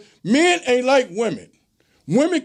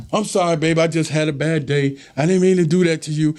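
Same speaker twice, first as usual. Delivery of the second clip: apologetic woman; 5 semitones lower than usual. Retold or imitated. Woman apologizing to her man after a bad day, pleading. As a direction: play the girlfriend saying sorry. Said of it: "Oop, there it is".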